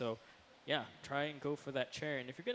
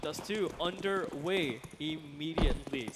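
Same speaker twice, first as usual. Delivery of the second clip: excited; 3 semitones higher, 6 dB louder than usual. Real, not acted. Caster reacts as round starts.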